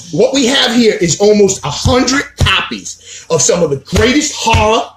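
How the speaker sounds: usual speaking voice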